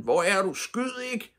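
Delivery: high, loud desperate calling; frightened shout across the woods; shouted plea. A narrator's reading. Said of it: "råbte han".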